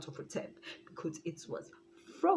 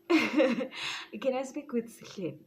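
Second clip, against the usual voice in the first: slow, higher drawn-out posh request; slow put-on phone voice; 6 semitones higher, 5 dB louder, slower than usual. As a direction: stretch it out in a fake phone voice. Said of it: "I almost said his name".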